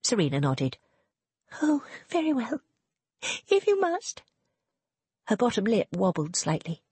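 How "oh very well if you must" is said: put-on much higher, sulky young lady; grudging and put-upon, much higher; petulant. Serena's petulant consent.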